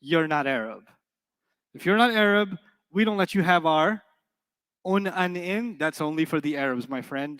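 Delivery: grammar police. Retold or imitated. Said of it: "the Arab grammar police came and said".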